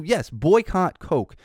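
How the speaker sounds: slow, drawn-out sarcastic approval. Real, not acted. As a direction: egg them on slowly with heavy irony. Sarcastic endorsement of boycott.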